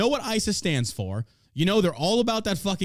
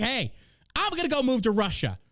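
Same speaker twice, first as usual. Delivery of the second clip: high, airheaded mock voice, much higher; mock clueless bride; 8 semitones higher than usual. Podcaster mocking the ISIS bride, high ditzy mock voice. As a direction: play her as a ditzy naive woman, pitch way up.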